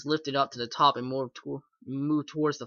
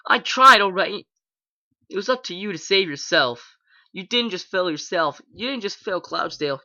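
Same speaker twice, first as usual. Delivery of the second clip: sudden anger; 4 semitones higher, 6 dB louder than usual. A narrator's reading. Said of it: "remembering her anger suddenly".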